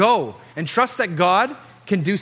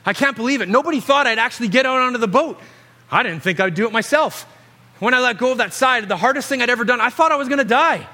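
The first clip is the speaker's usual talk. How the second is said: awed Peter; 5 semitones higher than usual. Acted. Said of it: "I wonder what was going on inside Peter's mind".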